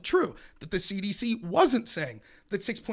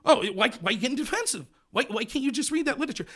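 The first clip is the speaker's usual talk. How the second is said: higher mock-wounded accusation; badgering debater; 5 semitones higher than usual. Host mimicking an opponent asking why he's defensive, badgering. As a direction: imitate a pushy accuser pleading for an answer.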